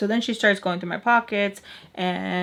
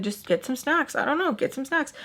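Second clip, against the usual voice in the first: higher-pitched brush-off, retold; mock exasperated, pitched up; exasperated reply; 5 semitones higher than usual. Mister Peach shrugging off her questions about snacks, exasperated.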